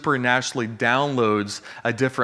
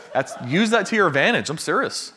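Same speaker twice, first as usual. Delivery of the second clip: higher, laughing through the words; 5 semitones higher than usual. Real, not acted. Preacher urges church to use turbulence, laughing. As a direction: chuckle while insisting.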